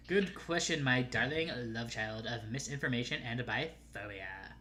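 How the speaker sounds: a hint of basic girl sass; half valley girl voice. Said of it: "half valley girl voice, which is why I'm doing it".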